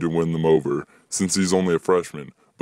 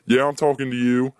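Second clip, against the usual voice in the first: outraged yell; 7 semitones higher than usual. Acted. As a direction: keep yelling at him, outraged. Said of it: "screams an outraged voice".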